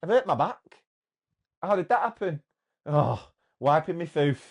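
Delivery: put-on broad Yorkshire accent; lightly done northern accent; northern English accent. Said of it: "the mixture of accents there".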